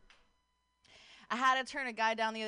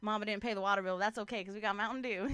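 lightly put-on country accent. Girlfriend playing white trash for her boyfriend, light country accent. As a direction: say it with a touch of country twang. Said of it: "like, in a country accent".

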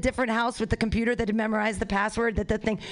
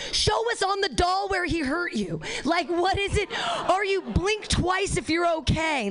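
mock urgent plea; 6 semitones higher than usual. Addressing Melania like a victim.

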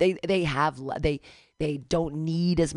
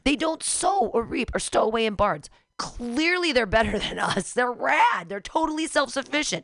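mock enthusiasm; 5 semitones higher than usual. Mock praise of birds.

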